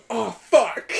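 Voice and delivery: high, loud yelled curse; yelling from below. Retold or imitated. Imitating his friend yelling after a fall into the creek. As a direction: yell it up from the creek. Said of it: "I hear, like".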